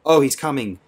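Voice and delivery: high, loud scream of rapture; frenzied scream. A narrator's reading. Clara screaming in frenzy at the service. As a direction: scream it out wildly. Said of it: "screamed Clara de Turding".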